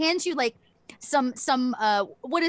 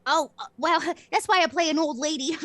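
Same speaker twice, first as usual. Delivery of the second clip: amused chuckling; 5 semitones higher, 5 dB louder than usual. Acted. Amused reply to compliment.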